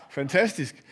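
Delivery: underwhelmed, faintly sarcastic praise; mock-impressed. Lecturer voices a doubter of the solution, mock-impressed. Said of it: "så kan man så sige".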